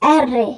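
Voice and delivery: আর রে with a trilled r; আর রে with a rolled Italian r. Shown as a demonstration. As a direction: vibrate the r in আর রে. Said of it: "vibration হবে".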